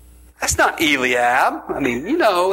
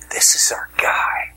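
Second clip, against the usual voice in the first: whispered. Retold or imitated. Samuel excited about Eliab.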